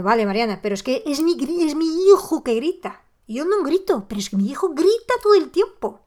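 una madre preocupada, voz más aguda; madre oyente imitada. Retold or imitated. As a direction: poniendo voz de madre agobiada que se queja. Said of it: "quizás te estás preguntando". (una oyente le plantea a Mariana su duda, con voz más aguda)

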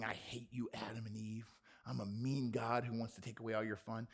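soft, low, breathy mock menace; mock mean God. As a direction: hiss it like a caricature of a mean God.

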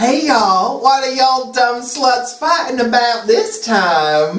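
badly faked Southern accent; a pop singer. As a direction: drawl it like a brash Southern pop star. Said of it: "This is my worst one".

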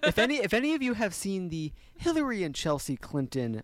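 high, hammed-up French clown voice. Player announces his impression, French clown voice. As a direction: channel a clown with a French accent. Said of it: "channeling the French clown".

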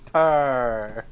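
loud purr in a put-on voice; cat purr. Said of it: "That's my cat impression".

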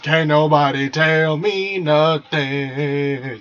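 slow, drawn-out swagger; imitating a smug partner; mock cocky cheater. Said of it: "it's just".

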